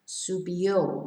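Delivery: "Subió" with the weight on the last O; stress on final O. Shown as a demonstration. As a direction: put the accent on the O ending "Subió". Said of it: "with an accent on the O".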